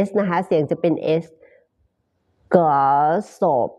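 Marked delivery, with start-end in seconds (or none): 2.5-3.7 glass of run together, the s linking into of; linked glass of. Shown as a demonstration. Teacher showing students how glass of links. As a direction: blend glass of smoothly. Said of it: "glass of แบบนี้ได้นะคะ".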